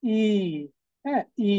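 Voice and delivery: ই said as a clean ee, not আই; German letter I. Shown as a demonstration. Teacher contrasts English আই with German ই for students. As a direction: model ই as a short ee sound. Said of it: "জার্মানে বলে".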